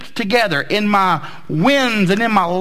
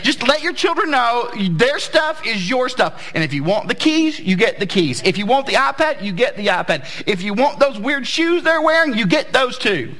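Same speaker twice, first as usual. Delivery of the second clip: booming motivational speech; 3 semitones higher than usual. Real, not acted. Preacher rally to parents.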